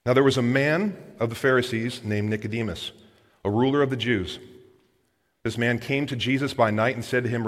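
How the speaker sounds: understated Bible reading; Scripture reading. A narrator's reading. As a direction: read the passage out evenly and low. Reads Scripture aloud.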